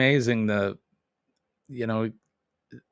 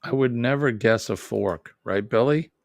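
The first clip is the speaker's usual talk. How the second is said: put-on New England accent; 3 dB louder than usual. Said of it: "That's my dad and many older New Englanders".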